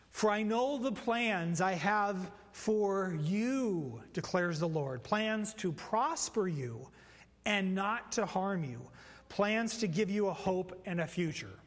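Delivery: slow, measured verse reading; solemn scripture read. Acted. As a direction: read it out like holy writ. Reads scripture slowly.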